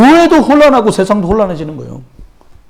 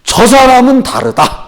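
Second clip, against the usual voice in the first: quoting the shamans; 5 semitones higher, slower than usual. Retold or imitated. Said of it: "그 무당들이 이렇게 말했대요".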